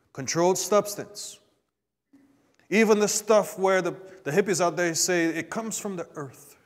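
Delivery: ordinary talk, nothing marked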